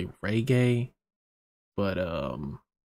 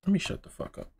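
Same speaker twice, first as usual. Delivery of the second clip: breathy whisper, pitched up, scolding himself; 9 semitones higher, 3 dB quieter, faster than usual. Real, not acted. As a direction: hush yourself mid-rant, almost unvoiced. Telling himself to stop talking.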